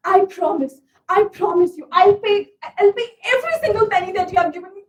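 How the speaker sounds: loud, earnest vow to repay; earnest promise. Acted. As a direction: swear it with urgency. Vowing to repay friend.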